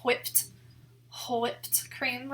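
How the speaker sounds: WHIPPED with an exaggerated puffed H before the W; mock-fussy breathy "hw" at the start of Whipped; imitating Stewie's pronunciation. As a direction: say "Whipped" as hoo-whipped, drawn out. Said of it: "when Stewie's like".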